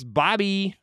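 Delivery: high, excited name call; all-caps exclamation. Acted. Host reading Lamb's all-caps greeting, exclaiming. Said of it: "all caps".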